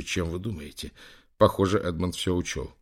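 ordinary delivery

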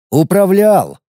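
"Управлял!" stressed high and bitter; indignant. A narrator's reading. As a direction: scoff at "Управлял!". Indignant echo of word.

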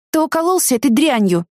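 high, reproachful rebuke. Acted. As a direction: scold him for using. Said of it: "укоризненно сказала я".

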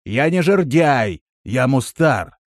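said by rote, a little emphatic; habitual correction. A narrator's reading. Traveller correcting Vardan about his name, habitual firm correction. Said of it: "привычно произнёс".

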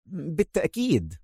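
soft mumbled assent; muttered agreement. A narrator's reading. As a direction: mumble it under your breath. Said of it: "غمغم علاء".

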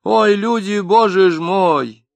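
put-on an old janitor shaking his head; folksy lament; sighing janitor. A narrator's reading. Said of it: "вздохнул понятой дворник".

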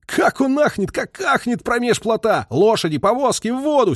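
high, loud, slowed wild cheer; desperate glee. A narrator's reading. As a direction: tell it with reckless battle joy. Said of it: "говорил с непонятным отчаянным весельем".

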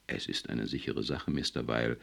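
low, soft and serious; quietly earnest assurance; Dooley assures his boss, low and grave. Acted. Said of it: "sagte Dooley ernst".

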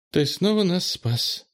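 high-pitched, faintly smiling gratitude; faint smile. A narrator's reading. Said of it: "бледно улыбнулась Фластра". (тонким голосом, со слабой улыбкой)

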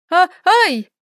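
sharp frightened yelp; startled cry. Acted. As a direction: cry out, clutching your heart. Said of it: "вскрикнув, Доменика схватилась за сердце".

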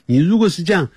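ordinary delivery

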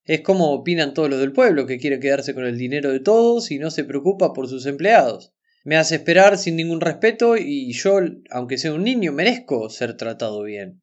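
hurt complaint, only lightly tearful; almost crying, retold. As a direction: act out an aggrieved boy's outburst without real tears. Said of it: "le dice casi llorando".

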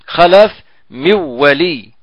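nasal merge of the nun into the waw, held long; with ghunna. Shown as a demonstration. Teacher demonstrates merging with a nasal hum, slowly. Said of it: "إدغام بغنة".

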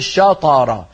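شطر with jaws opening on the ta; slowed شطر with an opened ta; wrong jaw opening. Shown as a demonstration. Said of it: "لا نجعل الفكين يبتعدان". (شطر بفتح الفكين عند الطاء، خطأ)

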